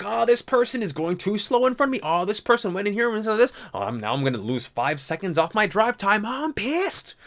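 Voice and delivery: high, hammed-up whiny rage; petty rage played for laughs; mock road rage. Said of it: "You're like".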